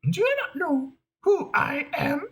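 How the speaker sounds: high, whiny piggy diva, near tears; a star who can't believe she's not recognised; offended diva. Acted. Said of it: "we want to go a little like this".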